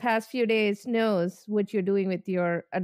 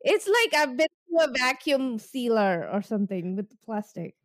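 lips stiff under a drying mask; through a face mask. Real, not acted. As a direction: speak without moving your mouth. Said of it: "I can barely move my mouth".

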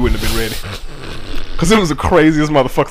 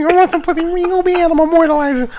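boxer impression; 11 semitones higher, faster than usual. Mock boxer impression during laughter.

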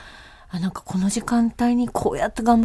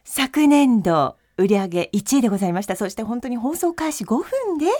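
bright, dramatic sales pitch; TV shopping host; 3 semitones higher than usual. Pretend. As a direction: present the product like a late-night shopping host. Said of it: "じゃあいいですか？".

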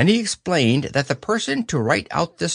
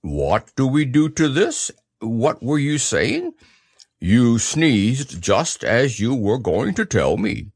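earnest bear voice, slowing down; Pooh, puzzled bear. Acted. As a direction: ask and explain as a puzzled bear.

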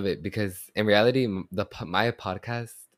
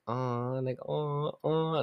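soft, rising-higher coos; cooed aws; 7 semitones higher, 4 dB quieter, much slower than usual. Shown as a demonstration. Podcaster showing her catchphrase, soft high cooing. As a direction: coo each one softly, higher on the repeats. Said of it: "I really do be saying".

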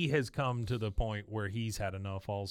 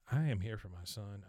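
under her breath; 3 semitones lower, 6 dB quieter than usual. Retold or imitated. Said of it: "under her breath".

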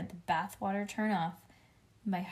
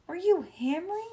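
incredulous mother; 11 semitones higher, 5 dB louder than usual. A narrator's reading. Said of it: "Her eyes got very bulging".

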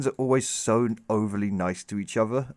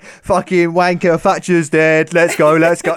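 rowdy football fan; 2 semitones higher, 6 dB louder, much slower than usual. Retold or imitated.

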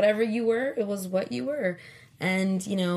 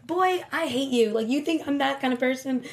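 teasing offence; 6 semitones higher, 5 dB louder than usual. Retold or imitated.

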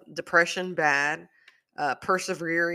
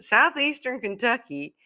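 put-on Kentucky accent; 8 semitones higher, 5 dB louder than usual. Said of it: "I can't do her accent".

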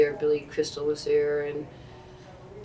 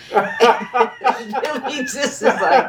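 laughing; 7 semitones higher, 8 dB louder, much slower than usual. Real, not acted. Laughing while telling joke.

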